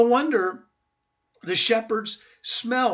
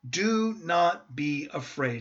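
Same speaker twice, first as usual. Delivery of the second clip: soft, slow and lower, reassuring; calm, gentle angel; 4 semitones lower, 4 dB quieter than usual. Acted. Angel calming frightened shepherds, gentle slow voice. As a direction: speak it gently, like the voice of God. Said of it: "He must have spoken that in a very calm voice".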